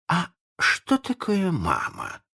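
high, slow, naive question; puzzled pirate. A narrator's reading. Ignorant Smee asks what a mother is, puzzled. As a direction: ask it like a clueless simpleton. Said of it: "спросил неряха".

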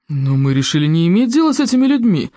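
understated stern objection. Acted. Viking objecting to the outcasts, stern. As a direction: state it sternly. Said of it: "сказал самым суровым тоном".

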